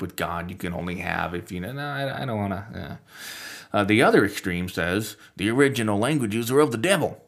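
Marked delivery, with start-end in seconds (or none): 5.4-7.2 mock Southern accent. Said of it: "I don't know why I go Southern accent".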